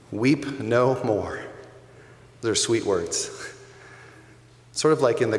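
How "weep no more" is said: gentle elder. Acted. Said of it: "an elder says to John".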